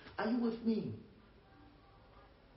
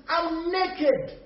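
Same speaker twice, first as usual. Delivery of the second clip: Adam confessing; 7 semitones higher, 3 dB louder than usual. Acted. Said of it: "Adam says".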